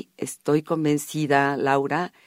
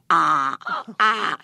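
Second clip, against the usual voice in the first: imitating child's sounds; 4 semitones higher than usual. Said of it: "hacía los sonidos".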